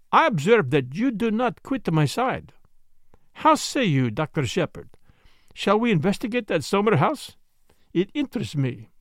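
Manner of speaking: lightly voiced detective, measured and courteous; a touch of character voice, lilting phrases; Poirot. Detective inviting the doctor to investigate, lightly in character.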